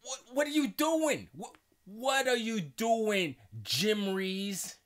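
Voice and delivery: high, loud mock scolding; Kaz. Kaz confronting Jim over what he said, mock-exasperated. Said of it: "and Kaz is like".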